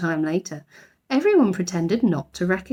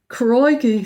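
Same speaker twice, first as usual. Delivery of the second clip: put-on louder alarmed boy; loud startled boy's crikey; boyish crikey; 4 semitones higher, 5 dB louder than usual. A narrator's reading. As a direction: exclaim in alarm. Jonathan alarmed.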